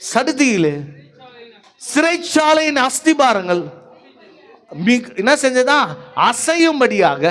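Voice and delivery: rousing sermon with punched phrases; fervent preaching. Acted. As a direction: proclaim it and rally the congregation. Preacher proclaims and rouses congregation.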